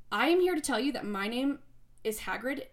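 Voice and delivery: a clumsy mock British accent as Hagrid; bad British accent. Joking to fellow competitors, in a bad British accent. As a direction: put on a half-hearted British accent, badly. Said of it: "That's a horrible British accent".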